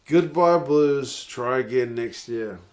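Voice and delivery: slow, loud gloating goodbye; drawn out like waving off the losers; mock farewell taunt. Real, not acted. Streamer gloating at the Blues' fans, slow, loud mock farewell. Taunting the losing rugby team.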